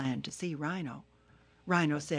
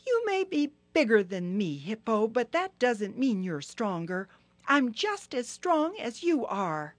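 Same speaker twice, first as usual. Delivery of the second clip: high, louder turtle challenge; angry Turtle; 6 semitones higher, 6 dB louder than usual. Acted. Turtle angrily challenging Hippo, high and loud. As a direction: fire back, high and cross. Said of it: "Now Turtle was really angry".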